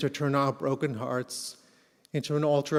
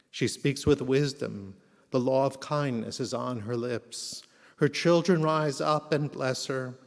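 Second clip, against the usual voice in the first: solemn. Acted. Reads Eshet Chayil at memorial.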